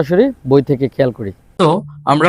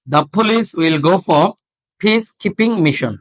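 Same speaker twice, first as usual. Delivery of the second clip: very slow, deliberate reading with breathy stops; slow drill; much slower than usual. Shown as a demonstration. Teacher slowly modelling a question for students. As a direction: read it slowly, puffing each stop. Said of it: "আর উচ্চারণ হচ্ছে না".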